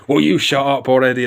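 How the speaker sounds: mildly exasperated retold outburst; mock lashing out. Felipe snapping at Hank Azaria in the monster's mouth, mock lashing out. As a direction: lash out lightly, as if quoting it. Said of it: "lashing out at Hank Azaria".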